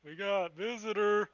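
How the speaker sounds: loud, slow yell; yelled call. Acted. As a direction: call it out loud across the room. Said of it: "yell out".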